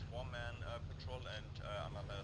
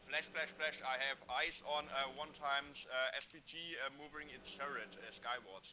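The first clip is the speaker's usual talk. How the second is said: urgent radio alert; 5 semitones higher than usual. Real, not acted. Spots enemy artillery firing.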